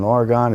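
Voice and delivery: Oregon said as three syllables, or-uh-GAHN; Oregon with a full middle vowel and open last syllable, or-uh-gahn; distinctive Oregon. Real, not acted. Guest names his foundation's home state, Oregon said or-uh-gahn. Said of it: "I love how you say Oregon".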